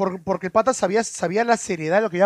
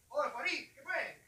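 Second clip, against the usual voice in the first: distant, higher-pitched call; faint questioning call, far off; calling from afar; 5 semitones higher, 18 dB quieter than usual. Real, not acted. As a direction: call out to a friend from across the room. Calls to Farid away from mic.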